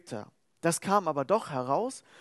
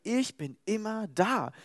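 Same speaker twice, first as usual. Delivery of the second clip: calm assurance; 3 semitones higher than usual. Acted. God's promise, slowed.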